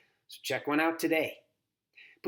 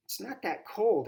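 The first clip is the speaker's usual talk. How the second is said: slow, higher, defensive reply; girl defending herself to grandma; 7 semitones higher than usual. A narrator's reading. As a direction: brush off the worry. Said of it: "I say, defensively".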